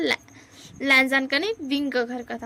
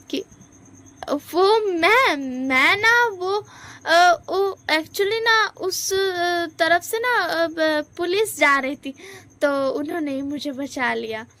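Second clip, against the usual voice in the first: high stammering lie; 4 semitones higher, slower than usual. Acted.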